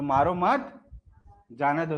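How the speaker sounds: मारो मत rising, pause, then जाने दो; pause after मत. Shown as a demonstration. Teacher recapping the comma that saves a life, pause after मत. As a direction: say मारो मत as one phrase, break, जाने दो. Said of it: "तो इसमें क्या हो गया".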